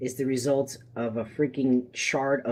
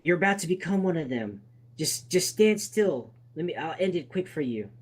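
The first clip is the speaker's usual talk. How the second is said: gunman; 4 semitones higher than usual. Acted. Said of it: "the other man with the gun is".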